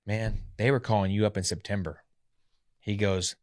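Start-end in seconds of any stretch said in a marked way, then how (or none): 0.1-2.0 understated imitation of a disgusted coach; mildly disgusted, retold; disgusted manager. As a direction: let the disappointment sit, without raising your voice. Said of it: "he looks disgusted".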